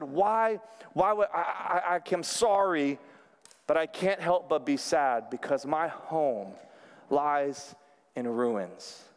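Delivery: timid apology trailing off to a near murmur; delicate and afraid. Retold or imitated. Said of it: "he went in there delicately and afraid".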